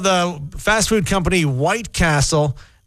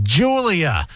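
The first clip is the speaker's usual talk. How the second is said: lightly put-on Cockney "Julia", pitched as a correction; hint of Cockney on the name; Cockney accent. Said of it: "from Cockney".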